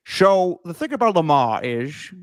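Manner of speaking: slow, hesitant mock movie-star drawl; Connery-Stewart mix. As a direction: botch an old film star's voice, drawn out. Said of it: "mix of Sean Connery and Jimmy Stewart".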